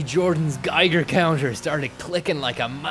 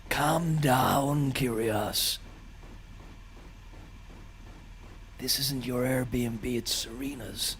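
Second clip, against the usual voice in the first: soothing talk; 5 dB quieter, much slower than usual. Retold or imitated. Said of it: "talk like that just to get through to him".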